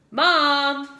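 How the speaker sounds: called out loudly; yelling. Acted. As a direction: yell for mom. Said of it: "yelled Froggy".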